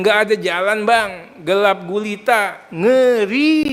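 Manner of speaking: retold wail of dread, half-playful; mock complaint. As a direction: imitate a plaintive complaint, drawing out the end. Voicing others' complaint of no way through.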